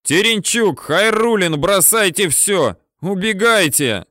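high, loud shouted names and orders; desperate yell. A narrator's reading. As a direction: scream them off the launcher. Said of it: "с надрывом орёт прапорщик Михеенко".

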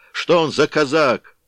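loud, high cursing shout; angry mob yell; crowd shouting. A narrator's reading. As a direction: yell the abuse out.

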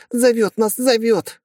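very high, frantic cry; entranced yell. A narrator's reading. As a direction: fight him off shouting. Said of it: "кричали они".

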